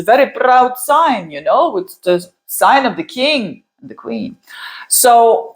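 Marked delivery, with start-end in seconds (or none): 0.0-1.3 put-on accent with rolled R on "proud"; higher-pitched, playfully accented emphasis; accidental accent. Real, not acted. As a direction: keep the sudden accent going through "proud". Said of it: "I don't know why I have this accent".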